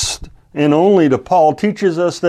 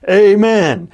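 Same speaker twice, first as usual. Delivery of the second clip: higher and louder burst of relief; triumphant shout; 6 semitones higher, 5 dB louder than usual. A narrator's reading. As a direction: fling out the word as the last hope. Remembers the stop word.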